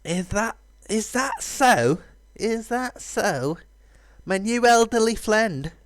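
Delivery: high, slow teasing doubt; skeptical hero. Acted. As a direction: raise an eyebrow at the old dragon. Voicing the hero character.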